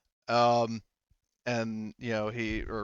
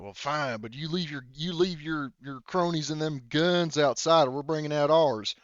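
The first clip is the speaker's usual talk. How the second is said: grudging redneck leader; 3 semitones higher than usual. Acted. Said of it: "and he says".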